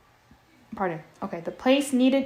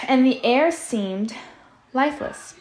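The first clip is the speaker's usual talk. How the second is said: "air seemed lifeless" said louder over noise; louder reread; 4 semitones higher, 5 dB louder than usual. Shown as a demonstration. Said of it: "And Sal is making a lot of noise".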